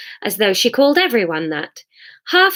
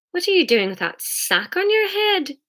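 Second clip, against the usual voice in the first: Hamish voice; 10 semitones higher than usual. Acted. Hamish asks wryly.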